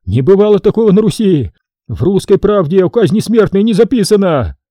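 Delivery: high, tearful protest; acted weeping, high and insistent; crying. A narrator's reading. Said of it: "плакал поп".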